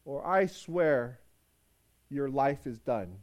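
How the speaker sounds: fuming threat. Acted. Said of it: "Aphia is still fuming".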